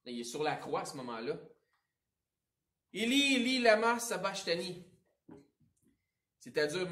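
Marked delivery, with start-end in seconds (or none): 2.9-4.8 cried out loud and higher, full voice; Jesus crying out on the cross in a loud voice. Acted. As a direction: call it out like a man crying from the cross. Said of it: "Jésus s'écria d'une voix forte".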